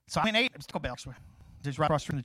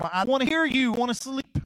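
annoyed sleepy retort; 5 semitones higher, 4 dB louder than usual. Retold or imitated. Sleepy airman to door-knockers.

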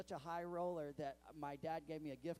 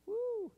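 a loud, much higher woo like a fan; high whooping cheer; 11 dB louder than usual. Retold or imitated. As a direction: whoop from the front row. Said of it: "he just sits there and goes".

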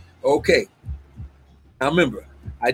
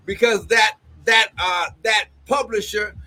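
fervent prophecy with exclamations of glory; prophetic preaching; 5 semitones higher than usual. Acted. Prophet releasing a word to the apostle, fervent preaching. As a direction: preach it as an urgent personal word.

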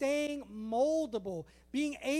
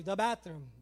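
weary parent; 5 semitones lower than usual. Acted. Parent answering a kid.

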